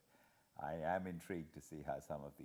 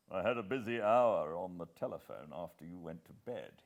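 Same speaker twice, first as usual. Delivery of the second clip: lightly voiced brisk English gentleman, a touch louder; a hint of a senior official briefing, firm and louder; Sir Walter; 10 dB louder than usual. Sir Walter briefing Hannay over breakfast, lightly voiced and firm.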